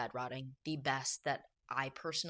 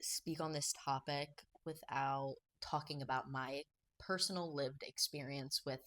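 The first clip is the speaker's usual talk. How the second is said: slow, softer, still shaken after tears; a little emotional; 6 dB quieter, slower than usual. Real, not acted. Vlogger recovering after tearing up, slow and softer. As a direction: gather yourself with a sigh and go on. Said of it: "Now that I've been a little emotional".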